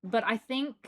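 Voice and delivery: lightly put-on British accent; amateur British accent, a touch exaggerated; fake British accent. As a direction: wind down the playful British accent. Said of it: "that is all for the British accent".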